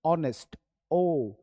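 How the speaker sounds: ऑनेस्ट said clearly, then its first sound ओ on its own; first sound shown. Shown as a demonstration. Teacher showing students the first sound of ऑनेस्ट. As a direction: say ऑनेस्ट and pull out the opening ओ. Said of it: "तो पहले बोलेगा ओ".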